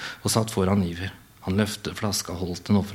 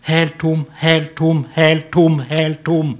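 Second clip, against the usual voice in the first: higher, louder repeated cry of disbelief; raised voice; 6 semitones higher, 7 dB louder, slower than usual. Acted. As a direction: keep raising it over the empty bottle. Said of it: "Han hevet stemmen".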